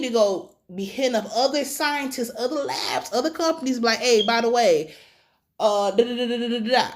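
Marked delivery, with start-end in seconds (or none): 4.0-6.9 breezy mock pitch to a rival lab; lightly voiced sales call; casual pitch. Hitting up other labs, a casual mock pitch. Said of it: "That's what I do".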